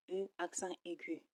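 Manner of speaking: E accent aigu read out in French; French pronunciation. Shown as a demonstration. Teacher reads the accented letter to learners, French pronunciation of E accent aigu. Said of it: "And we read".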